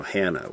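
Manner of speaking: "Hannah" as HAN-uh; anglicised "Hannah", stressed on the first syllable; English pronunciation. Shown as a demonstration. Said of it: "we say".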